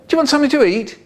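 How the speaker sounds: falsely sweet offer; sugary high voice. Acted.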